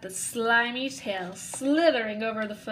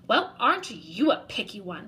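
sniffy. Acted. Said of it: "she sniffed".

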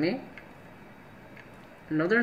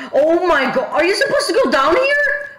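high panicky laugh-talk; scared laughing; 10 semitones higher, 4 dB louder than usual. Real, not acted.

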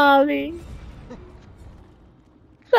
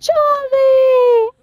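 yelling for help; 4 dB louder, much slower than usual. Real, not acted. Begging teammate for help mid-chase.

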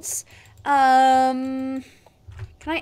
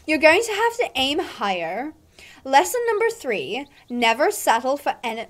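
haughty, condescending rider; mean girl; 2 semitones higher than usual. Acted. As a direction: talk down to a beginner. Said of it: "my accent is all over the place".

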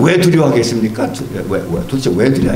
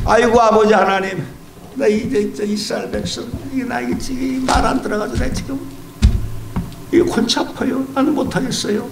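weary Moses; 5 semitones higher than usual. Acted. Moses complains to God.

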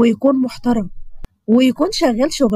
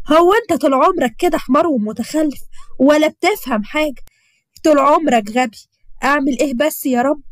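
a neighbour berating her grown son, pitched up; mother scolding her son; 4 semitones higher than usual. Acted. Umm Hussein berates her son in the street, mock scolding. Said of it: "بتزعق لابنها حسين وبتقوله".

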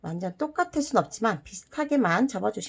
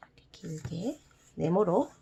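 soft whisper while folding; 3 semitones lower, 8 dB quieter than usual. Real, not acted. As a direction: whisper under your breath. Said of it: "whispering while folding".

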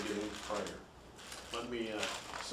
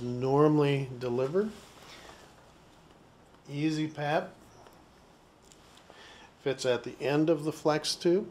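slow, louder step-by-step narration; instructional demonstration; 7 dB louder than usual. Shown as a demonstration. Explaining the device's assembly to learners, slow instructional narration. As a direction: present each part deliberately, with pauses.

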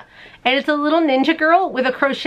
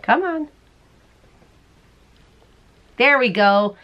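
ordinary delivery

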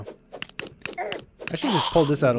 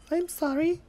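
very high, softened fake sorry; mock apology; 12 semitones higher, 5 dB quieter than usual. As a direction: apologise teasingly in a tiny high voice. Mock apology to a killed enemy.

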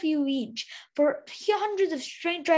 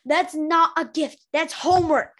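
snapped; 5 dB louder than usual. Acted. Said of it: "Snowfall snapped".

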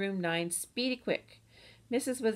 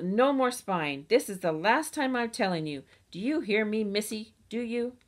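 mother scolding; 2 semitones higher, 4 dB louder than usual. Acted. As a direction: lay down the law to the child. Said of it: "she yelled".

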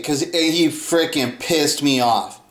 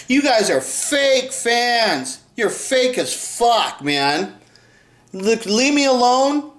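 angry yell; 6 semitones higher, slower than usual. Retold or imitated. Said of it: "I keep yelling".

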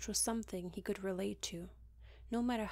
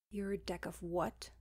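amused frown. Acted. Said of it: "he frowned".

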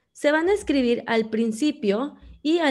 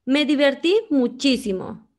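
higher, brighter exclaimed line; 4 semitones higher than usual. Shown as a demonstration. Teacher modelling an exclamation, lively joy. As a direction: say it as if bursting with fun.

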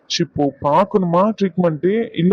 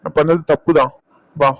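soothing; slower than usual. Acted. Soothes crying partner.

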